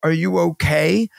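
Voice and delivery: lightly imitated serious doctor; dead serious. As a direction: check on the patient, low-key and earnest. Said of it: "looks at me dead serious".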